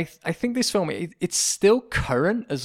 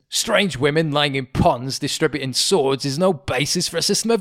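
acted rant; 3 semitones higher, 3 dB louder than usual. Acted rant of film side character.

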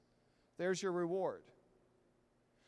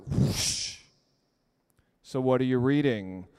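mock curious onlooker; 6 semitones lower, 10 dB louder, slower than usual.

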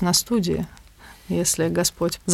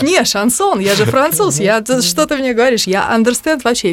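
higher, louder, offended "я же француз"; mock indignant foreigner; 5 semitones higher, 3 dB louder than usual. Retelling the colleague's protest that he's French, in a raised mock voice. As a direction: play him insulted at being doubted. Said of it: "Он говорит".

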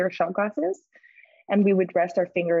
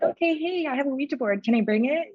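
bright, much higher, eager asking voice; chirpy high ask; 8 semitones higher than usual. Retold or imitated. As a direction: ask sweetly like a shy teen. Asking new friend about sleepover.

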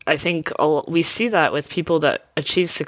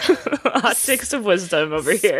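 laughing and spitting into the mic. Real, not acted. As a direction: spit on the microphone while laughing. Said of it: "Spat all over my microphone".

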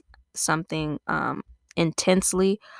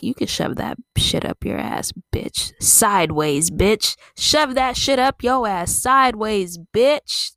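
aggressive Angela; 3 semitones higher, slower than usual. Retold or imitated. Imitating a fed-up Angela telling someone off. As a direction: spit it out like a fed-up friend. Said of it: "But Angela will be like".

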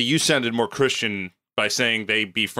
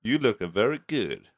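put-on Japanese accent; 3 semitones lower, 5 dB quieter than usual. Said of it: "This is Japanese".

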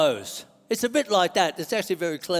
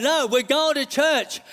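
slightly acted firm insistence, higher; insistent spirit guy; 5 semitones higher than usual. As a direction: lightly play the spirit overruling flesh. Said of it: "the spirit guy saying".

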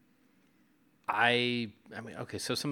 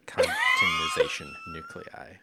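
much higher, loud sharp shout with laughter; 4 dB louder, slower than usual. Retold or imitated. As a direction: belt the term out in a sharp cry. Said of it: "throwback to, uh, to Allison, uh, Nugent's interview".

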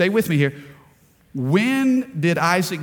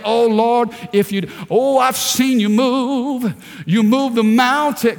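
fervent prayer; 4 semitones higher than usual. Retold or imitated. Preacher voicing a believer's excited prayer to the Lord. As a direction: pray it out with full fervor.

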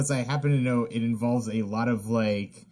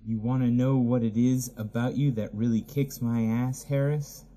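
sultry woman. Acted. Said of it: "your voice of a sexy cartoon lady".

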